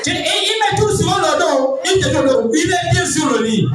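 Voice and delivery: preacher in full flow; animated preaching. Acted. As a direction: act out the illustration for the congregation. Preaches the couple illustration.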